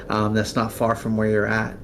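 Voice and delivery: usual speaking voice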